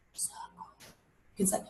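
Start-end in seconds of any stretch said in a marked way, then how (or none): 0.1-0.7 breathy whispered word, barely audible. Shown as a demonstration. Teacher showing kids how to whisper the word, whispered. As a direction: whisper it like a secret. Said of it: "Say it in a whisper".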